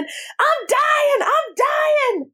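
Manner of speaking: high-pitched panicked party wail; mock screaming. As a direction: act out someone hysterically screaming they're dying. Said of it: "and he's screaming".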